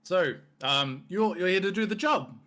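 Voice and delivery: lightly voiced hearty minotaur, a bit high and loud; jovial minotaur boss. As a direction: play the friendly beast merchant.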